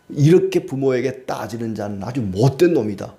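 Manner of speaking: usual speaking voice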